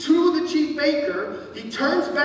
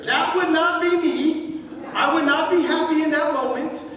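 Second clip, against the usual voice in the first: emphatic aside; 4 semitones higher than usual. Real, not acted. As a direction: insist this is not you. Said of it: "preacher's aside, louder".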